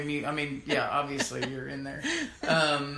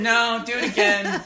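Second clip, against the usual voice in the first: mock studio director; 4 semitones higher, 8 dB louder than usual. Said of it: "a guy in a sound studio going".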